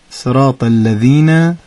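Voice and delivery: slow cue of صراط الذین, deliberately drawn out; cue to reread. Shown as a demonstration. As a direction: say صراط الذین slowly to prompt the verse. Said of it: "اون آیهٔ آخر رو یه بار دیگه بخونید". (آهسته و شمرده گفتن صراط الذین)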